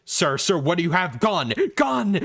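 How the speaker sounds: mock security guard panic; retold guards yelling gun; guards shouting.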